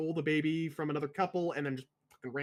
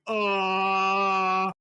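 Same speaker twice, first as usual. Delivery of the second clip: stunned oh; 3 semitones higher, 8 dB louder than usual. Retold or imitated. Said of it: "And she's like".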